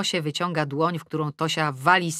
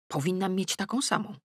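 quiet; 2 semitones higher, 5 dB quieter than usual. Acted. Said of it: "Pytam Tosię cicho".

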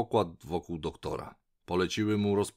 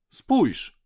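high, loud call for attention; zawołanie; 13 semitones higher, 9 dB louder than usual. A narrator's reading. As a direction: call out urgently to point something out. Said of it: "zawołała Dab-Dab". (głośne, wysokie wołanie)

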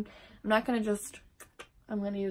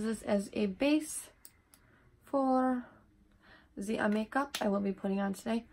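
put-on unknown French-like accent. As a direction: slip into a playful, hard-to-place French-ish accent. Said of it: "I don't even know what accent that is".

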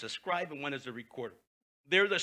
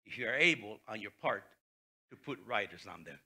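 sarcastic; 5 semitones lower than usual. Acted. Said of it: "And sarcastically says".

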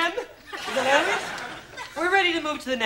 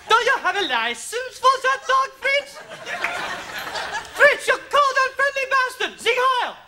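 mock German accent building to high-pitched outrage; phlegmy German accent, escalating into a harangue; 7 semitones higher, slower than usual. Accent teacher demonstrating on Fritz and his dog, German accent. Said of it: "ready to attempt the accent".

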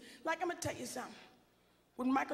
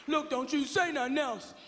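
louder, firm warning; sassy last word; 5 dB louder than usual. Retold or imitated. Black wife ending the argument with a firm warning. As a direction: put him in his place, finger wagging.

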